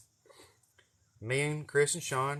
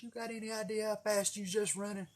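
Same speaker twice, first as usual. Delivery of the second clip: stern trooper; 9 semitones higher, 5 dB quieter than usual. Retold or imitated. Trooper voiced scolding at car window.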